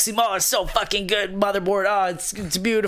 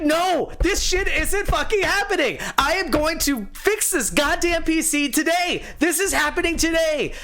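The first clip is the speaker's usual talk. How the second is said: higher, defiant insistence; determined rant; 11 semitones higher than usual. Retold or imitated. Builder vowing to fix his PC today, defiant. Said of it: "I'm like".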